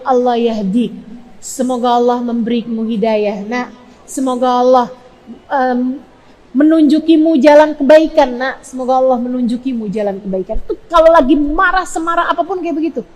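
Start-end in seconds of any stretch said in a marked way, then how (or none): 0.0-10.6 restrained parental prayer. Acted. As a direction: bless the child instead of scolding. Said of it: "mereka hanya akan bilang".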